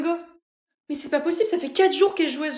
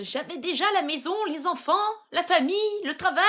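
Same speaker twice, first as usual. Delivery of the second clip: grandma voice; 4 semitones higher than usual. Acted.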